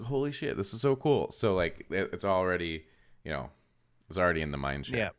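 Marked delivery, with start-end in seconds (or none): 0.0-1.3 roommate's amazed reaction; excited outburst. Retold or imitated.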